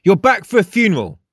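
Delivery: high, loud matter-of-fact statement; assured high character voice. A narrator's reading. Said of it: "stated Frost matter-of-factly".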